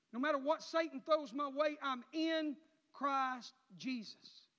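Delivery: drawn-out, weighty delivery; slow proclamation. Acted. Preacher proclaiming slowly to his congregation. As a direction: stretch every word out.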